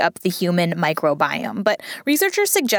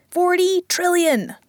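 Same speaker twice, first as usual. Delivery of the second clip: "Forty trillion!" slow, higher, stressed on "Forty"; amazed emphasis; 8 semitones higher, slower than usual. Real, not acted. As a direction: stretch out "Forty trillion!" in wonder. Amazed repeat of the number.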